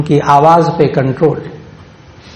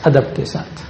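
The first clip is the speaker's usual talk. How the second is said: whispered; 5 dB quieter than usual. Shown as a demonstration. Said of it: "آہستہ آواز سے".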